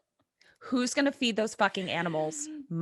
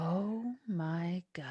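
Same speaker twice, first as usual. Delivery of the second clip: whispered gasp; 2 semitones lower, 9 dB quieter, much slower than usual. Real, not acted. Reaction to grim ending.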